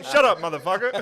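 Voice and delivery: loud, high comic yell; hammed-up furious shout; mock angry shout. Quarrel in the convenience store, mock angry shouting.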